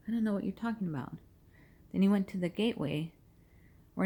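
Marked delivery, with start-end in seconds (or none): 0.1-1.2 fast, hurried brush-off; quick denial. Acted. Peter quickly denying again to the servant girl, hurried. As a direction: rattle it off to dodge her. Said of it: "But he denied it before them all".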